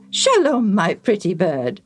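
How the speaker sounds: fond greeting. Acted. Priest makes friends with the parrot, fondly. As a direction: greet the bird fondly in a human voice.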